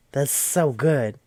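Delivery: impressed, savouring it slowly; slow awed praise. Real, not acted. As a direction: stretch out "so good" in admiration. First take of repeated praise.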